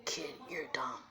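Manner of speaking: low, whispery put-down; hushed, low creature voice; dismissive fox. Acted. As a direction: say it low and unimpressed.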